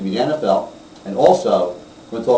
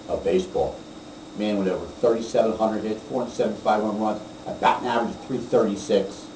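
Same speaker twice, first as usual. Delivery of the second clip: subdued tribute; 5 semitones lower, 7 dB quieter than usual. Real, not acted. Tribute to a baseball great who died.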